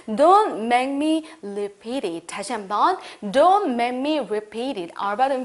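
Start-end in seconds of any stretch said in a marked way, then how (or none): 0.1-2.3 warning. Shown as a demonstration. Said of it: "경고하시면서 말씀해 볼게요".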